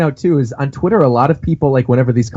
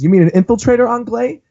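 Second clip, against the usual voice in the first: sister; 8 semitones higher than usual. Retold or imitated. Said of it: "his sister, I presume, says".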